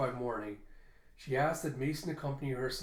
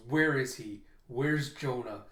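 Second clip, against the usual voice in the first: loud, furious demand; fierce raised demand; angry demand; 4 dB louder, slower than usual. Acted. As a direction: shout it in his face, gripping his neck. Grabs him by the neck.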